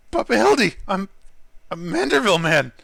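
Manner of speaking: lightly voiced character, lifted at the start; lighter character voice. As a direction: call out in a lighter voice, then settle. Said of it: "gonna keep the lighter voice".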